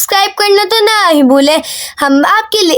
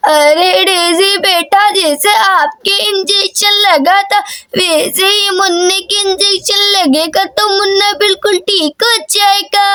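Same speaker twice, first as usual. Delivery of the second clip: doting grandmother. Acted. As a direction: stretch the words like a grandmother. Grandmother reassures Daisy.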